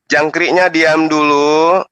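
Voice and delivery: slow, drawn-out call for silence; mocking hush. Real, not acted. Host tells the background dancers to hush, mocking.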